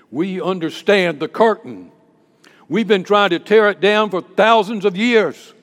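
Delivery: loud, rising preacher's declaration; forceful preaching. Real, not acted. Preacher on tearing down the curtain, forceful preaching. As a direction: drive it home to the congregation.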